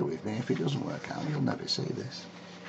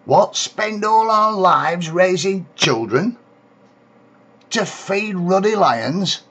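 proper blazing; 8 semitones higher, 6 dB louder than usual. Acted. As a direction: let the mother blaze at the magistrate. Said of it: "Mother got proper blazing".

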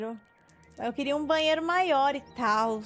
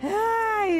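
sudden realization; 8 semitones higher, 4 dB louder than usual. Real, not acted. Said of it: "eu esqueci".

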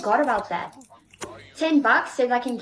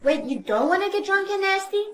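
higher-pitched incredulous question; taken aback; 5 semitones higher than usual. Acted. Double-checking a friend's answer to a proposition, incredulous. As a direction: ask it in raised disbelief.

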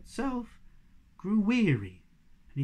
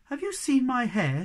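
higher, a touch coy and preening; coy question; 8 semitones higher, 6 dB louder than usual. Acted. Snork Maiden showing off her hair, coy. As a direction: fish for a compliment. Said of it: "smiled coyly".

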